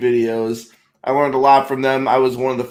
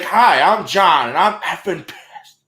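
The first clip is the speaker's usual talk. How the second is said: high, slow, hammed-up furious greeting; mock angry intro; 5 semitones higher, slower than usual. Host suggests a joke line for trade shows. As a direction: playfully fake being pissed. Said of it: "be like".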